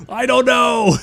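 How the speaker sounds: high, loud "I don't know!" with "don't" hit hard; exasperated shout. Real, not acted. Streamer baffled by the name creaming soda, high exasperated yell.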